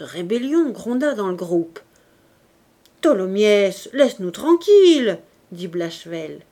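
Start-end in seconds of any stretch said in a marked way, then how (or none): 3.0-5.2 loud fed-up protest; exasperated shout. A narrator's reading. Blachevelle telling Tholomyès to stop, shouted. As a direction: shout him down.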